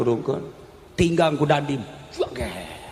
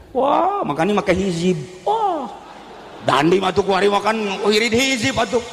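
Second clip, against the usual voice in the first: excited; 3 semitones higher than usual. Acted. Excited voice in the story.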